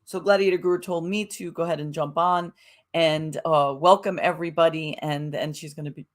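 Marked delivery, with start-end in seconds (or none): 5.0-6.1 talking through hiccups and burps; words broken by a hiccup. Real, not acted. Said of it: "I'm, like, hiccuping".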